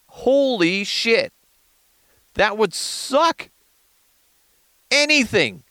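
a hint of a gossiping teen; valley girl voice. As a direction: gush like a lightly voiced teenage girl. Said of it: "That was me speaking".

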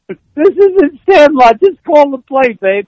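loud, high, slow yell. Retold or imitated. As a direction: bellow it across the huddle, drawn out. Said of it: "he yells".

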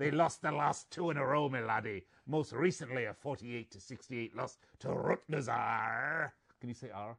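hint of a pirate; lightly voiced pirate captain. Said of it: "in my pirate voice for you".

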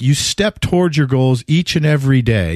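imitating a Greek star answering with a light accent. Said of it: "in his Greek accent".

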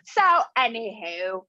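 silly put-on British accent; exaggerated mock British. Shown as a demonstration. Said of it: "any British accent".

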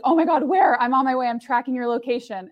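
hammed-up panic; imitating frantic friends. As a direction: play the friends losing it over the news. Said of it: "my friends were losing their minds".

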